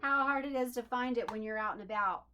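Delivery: laughing quote. Retold or imitated. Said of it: "she's like".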